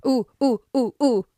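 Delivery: excited high ooh ooh; eager ooh. Real, not acted. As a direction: bounce in wanting to guess. Eager to guess the twist.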